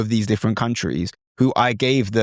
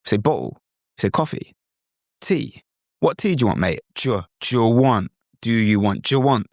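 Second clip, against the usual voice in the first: put-on a mild British accent from a friend correcting you. Friend correcting the learner in a light British accent. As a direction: correct the learner like a local mate. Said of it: "chip in and say".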